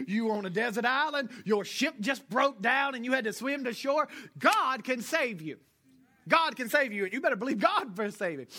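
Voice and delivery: preaching at full force. Acted. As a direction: drive each word home from the pulpit. Preaching God can save you.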